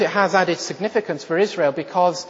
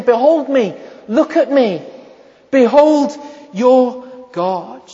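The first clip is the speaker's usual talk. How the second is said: voice of the Lord; 6 semitones higher, 6 dB louder than usual. Retold or imitated. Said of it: "He's saying".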